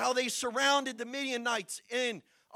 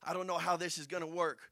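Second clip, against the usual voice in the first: low, subdued voice of a doubtful leader; sit back and sigh it out, low and soft; quiet, deflated muttering to oneself; Gideon, daunted; 6 semitones lower, 5 dB quieter than usual. Acted. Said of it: "Gideon just sitting back and be like".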